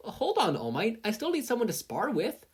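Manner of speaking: high, eager call after him. Acted. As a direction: catch him before he leaves. Calling after All Might.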